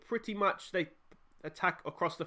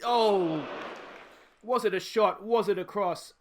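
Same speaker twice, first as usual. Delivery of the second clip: surprised; 5 semitones higher, 5 dB louder, slower than usual. Real, not acted. Shot goes in, reacting live.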